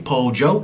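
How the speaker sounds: pollo said as "pol-jo" with a hard J; Colombian pollo. Shown as a demonstration. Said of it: "It's a hard J sound".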